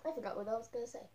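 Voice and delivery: muffled through full mask; talking inside costume head. Real, not acted. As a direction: voice enclosed by headpiece. Seen 0: Full furry costume head covers speaker's face throughout all frames.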